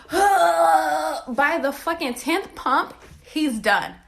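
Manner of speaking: slow, wailing through laughter; real laugh-cry. Real, not acted. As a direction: draw it out in disbelief. Laughing-crying at the punchline.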